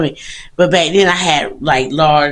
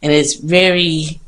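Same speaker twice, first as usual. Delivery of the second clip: out of breath; slower than usual. Real, not acted. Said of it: "I'm out of breath".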